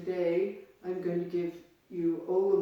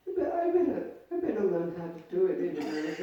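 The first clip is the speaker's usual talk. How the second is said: laughing thought; faster than usual. Retold or imitated. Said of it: "So then I thought".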